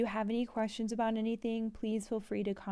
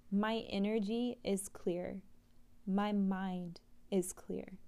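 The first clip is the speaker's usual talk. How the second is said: slow, even affirmation read aloud; guided affirmation, unhurried; slow mantra reading; slower than usual. Acted. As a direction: read the mantra calmly and slowly.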